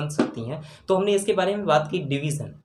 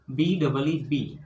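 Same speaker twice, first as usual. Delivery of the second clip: slow spelling; 2 semitones lower, much slower than usual. Shown as a demonstration. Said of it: "teacher spells out letters".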